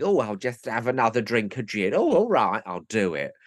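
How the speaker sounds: lightly voiced tipsy old lady, jumping up on oh all right; a hint of Irene Handel fussing over her gin; mild mock tipsy lady; Irene Handel impression. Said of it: "Irene Handel going".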